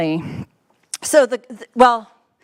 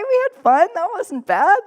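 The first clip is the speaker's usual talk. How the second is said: gleeful; 9 semitones higher than usual. Real, not acted. Fond staff lunch recall.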